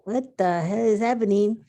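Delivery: inner disbelief. Retold or imitated. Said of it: "it's like".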